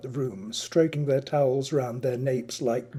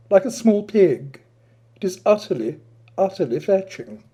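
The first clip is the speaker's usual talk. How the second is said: foppish Adrian; 3 semitones higher, 4 dB louder than usual. Acted. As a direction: purr the flattery like a vain aesthete. Narrator voices foppish Adrian.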